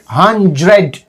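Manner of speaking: "hundred" with the dr squeezed into a J sound; native-style blended sound. Shown as a demonstration. Teacher showing how natives speak, blended J sound. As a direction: say "hundred" as hun-jred, drawn out. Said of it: "So sound like a J".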